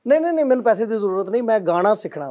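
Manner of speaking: rushed mock insistence; insistent retold pupil. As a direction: brush objections aside, acting out the eager pupil. Acts out insistent pupil, hurried.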